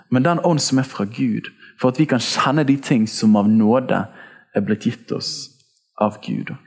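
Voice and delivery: measured, emphatic Bible reading; scripture reading. Acted. Preacher reading Paul's verse to the congregation, measured recitation. Reads a Bible passage aloud.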